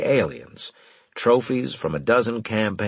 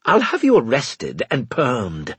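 louder furious threat; furious shout; 5 semitones higher, 4 dB louder than usual. A narrator's reading. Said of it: "he shouted furiously".

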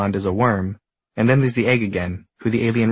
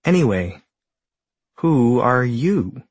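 owl voice; 2 semitones higher, slower than usual. Acted. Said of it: "asks the owl".

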